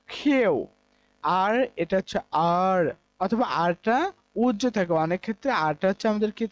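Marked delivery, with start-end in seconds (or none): 0.1-0.5 কিউ repeated as the model form; correct pronunciation. Shown as a demonstration. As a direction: slowly model কিউ for students. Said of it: "আমাদের উচ্চারণ হচ্ছে". (সঠিক কিউ উচ্চারণ)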